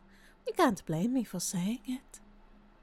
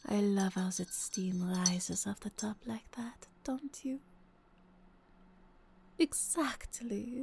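whispering; 3 dB quieter than usual. Acted. Cozy breakfast roleplay.

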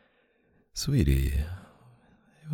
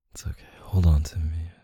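soothing whisper. Acted. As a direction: comfort them in a whisper. Comforting crying partner.

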